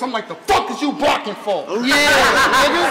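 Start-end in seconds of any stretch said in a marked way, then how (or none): 0.3-1.6 lightly imitated battle rapper; a hint of another rapper's voice. Rapper confronts someone blocking the door, lightly imitated voice. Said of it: "in my calico voice".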